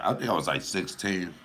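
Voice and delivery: ordinary talk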